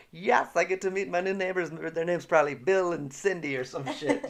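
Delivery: high-pitched, eager imitation; hammed-up delighted anticipation; mock excitement. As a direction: gush like he's pumped to meet someone. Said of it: "he was super, you could tell".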